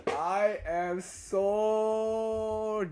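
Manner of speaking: laughing high and slow at himself; giggly self-mocking confession. Real, not acted. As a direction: laugh through it, stretched out.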